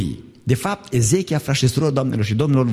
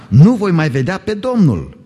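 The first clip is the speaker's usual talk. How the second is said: declaiming lament; 5 semitones higher, 5 dB louder than usual. Acted. Preacher reading Hezekiah's lament, louder and higher. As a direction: lament read out louder, pitched up.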